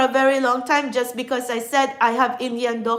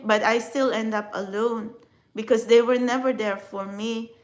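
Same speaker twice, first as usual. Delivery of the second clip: ordinary talk, nothing marked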